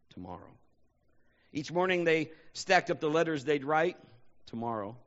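dramatic poem recital, swelling and falling; poem reading. Acted. Pastor closing the sermon with a read poem.

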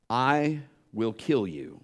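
low, slow imitation of a threatening voice; menacing voice, retold. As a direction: lightly voice a threat, slow and hushed. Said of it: "This voice said".

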